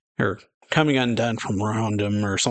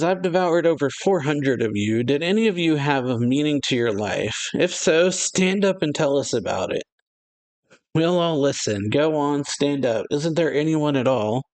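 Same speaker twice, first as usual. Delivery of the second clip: higher-pitched, goading address to a crowd; acted challenge; 4 semitones higher than usual. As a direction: call them out, lightly hammed up.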